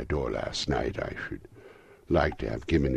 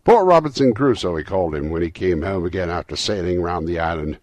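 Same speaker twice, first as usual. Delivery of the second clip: loud, raised voice bubbling over with delight; ecstatic, half laughing; 5 semitones higher, 11 dB louder than usual. A narrator's reading. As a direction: gush it, between laughing and crying. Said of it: "extraordinary voice between laughing and crying".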